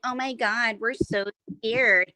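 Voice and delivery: lightly put-on scared taunt, dragged at the end; mocking fake fright. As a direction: mimic them making fun of you. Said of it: "they would mock me and make fun of me".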